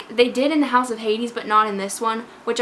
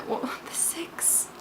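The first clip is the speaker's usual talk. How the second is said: near tears; 13 dB quieter, slower than usual. Real, not acted. Fan correcting seven to six after Leo dies, near tears. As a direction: voice dropping to a faint whisper. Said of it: "I'm gonna start crying again".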